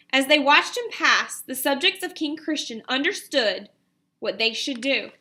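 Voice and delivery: measured storybook read-aloud to a class; gentle classroom read-aloud voice; story narration. A narrator's reading. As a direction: read it like a picture book to children. Teacher reads story aloud.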